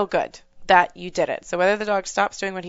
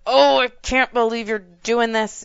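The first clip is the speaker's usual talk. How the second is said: a scolding said sweetly, a bit higher and slow; 4 semitones higher, 3 dB louder than usual. Shown as a demonstration. Trainer shows owners how to vent at the puppy, in a sweet, slow tone. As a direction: scold the puppy with a friendly singsong voice. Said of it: "you have to say it in a really nice tone".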